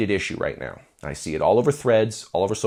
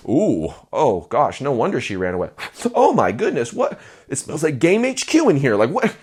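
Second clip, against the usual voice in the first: mock grossed-out reaction, pitched up; disgusted girl. Pretty lady recoiling from a smelly guy, mock disgust. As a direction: play the repelled pretty lady, lightly.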